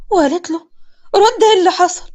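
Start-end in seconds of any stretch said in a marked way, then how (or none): 1.2-2.0 high, loud interrogation; yelling demand. A narrator's reading. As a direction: demand an answer from her brother. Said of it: "مسكت في أخوها". (بزعيق)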